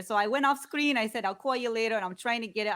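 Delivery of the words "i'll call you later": I'll call you later with a mild Yonkers New York accent, r dropped in later; warming up a light Yonkers accent on I'll call you later. Shown as a demonstration. The speaker rehearses her Yonkers accent for the briefing. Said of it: "how I'm supposed to talk is I say".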